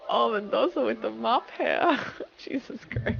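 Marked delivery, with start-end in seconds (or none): 0.1-2.0 mock commentary. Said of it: "your whole, like".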